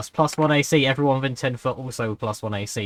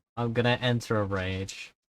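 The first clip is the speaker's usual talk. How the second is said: slow, halfhearted voice lacking any enthusiasm; 7 dB quieter than usual. Announcing that the barbarian character enters a rage: unenthusiastic. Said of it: "I'm sounding so unenthusiastic about this".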